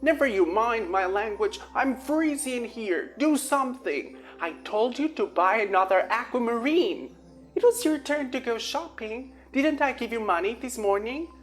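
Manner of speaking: high, loud accusing yell; angry brother. A narrator's reading. Kyle blames Lil about shopping, loud and accusing. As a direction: shout him down, accusing.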